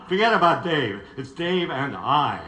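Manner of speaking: loud, laughing through the joke; playful laughing correction. Real, not acted. Joking, laughing at own phrasing.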